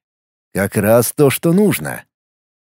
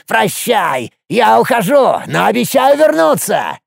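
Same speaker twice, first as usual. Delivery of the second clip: high, creaky gloating farewell; triumphant creaky dwarf; 8 semitones higher, slower than usual. A narrator's reading. Dwarf Hopus gloats as he slips away, high and creaky. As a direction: crow your escape. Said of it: "торжествующе воскликнул".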